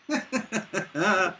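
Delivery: short run of chuckles, then a breath; amused laugh. Real, not acted. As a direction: chuckle to yourself in disbelief. Amused at the commenter's mistake.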